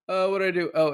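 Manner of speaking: hammed-up flustered cry before fainting; mock fainting queen. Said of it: "and faints".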